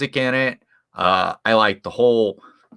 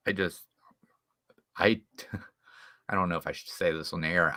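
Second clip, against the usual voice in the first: soft, half-whispered confession; hushed aside; 3 semitones lower, 10 dB quieter, faster than usual. Real, not acted. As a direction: lower your voice like sharing a secret. Unsure about sharing a secret on air.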